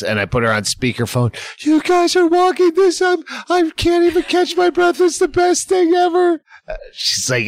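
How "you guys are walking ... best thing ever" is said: high, breathless gushing imitation. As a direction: gush like an excited cheerleader. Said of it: "Bertine calls".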